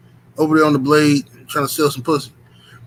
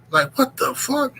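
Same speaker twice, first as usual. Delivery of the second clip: drawn-out disbelief; 8 semitones higher, slower than usual. Real, not acted. Shock at her neck.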